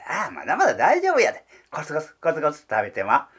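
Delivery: a heron muttering to itself while pecking; heron talking to itself. Acted. Voicing the heron's thoughts. (鷺の独り言、軽く声色を変えて)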